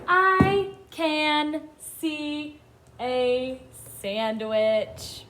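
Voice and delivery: very slow, separated words; each word stretched with a gap after; word-by-word reading. Shown as a demonstration. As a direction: read it out slowly for beginners to follow. Modelling reading for young children.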